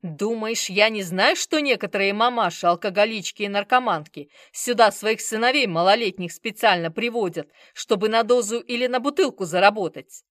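very loud furious yell. Acted. Bazarov exploding at the manager, furious yell. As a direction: roar at him in fury. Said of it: "заорал Базаров".

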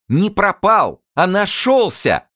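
very high, loud and slow; joyful announcement. A narrator's reading. Zinulya announcing the news to the patient, joyful and loud. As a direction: announce the good news with delight. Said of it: "радостно объявила Зинуля".

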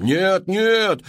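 high loud protesting cry; wailing no. A narrator's reading. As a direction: howl from the back rows. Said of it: "вопли". (вопль «нет, нет» высоким голосом)

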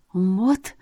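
ordinary delivery

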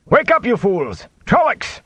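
high, urgent alarm shout; raising the alarm, pitch soaring. A narrator's reading. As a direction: rouse sleepers with a yelled warning. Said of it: "he shouted".

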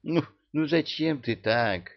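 high-pitched gentle reproach; reproachful. A narrator's reading. Witch reproaching the founding father, chiding. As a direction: chide him lightly, voice lifted. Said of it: "укорила отца-основателя ведьма".

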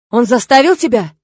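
father demanding if husband forced daughter, growling; growing growl. A narrator's reading. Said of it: "с разгоняющимся рычанием спросил папа".

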